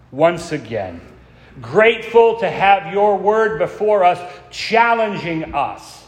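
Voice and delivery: earnest prayer voice; pastoral prayer. Acted. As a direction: pray for the congregation, reverent. Leads the congregation in prayer.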